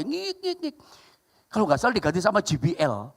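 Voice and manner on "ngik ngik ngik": tiny high, soft repeated squeaks; imitated feedback squeals. Old tape deck fights back, imitated feedback squeals. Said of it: "suka, suka ngelawan dia".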